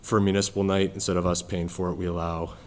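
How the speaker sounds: winded from the stairs; breathless after climbing stairs; out of breath. Real, not acted. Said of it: "I'm out of breath from the stairs".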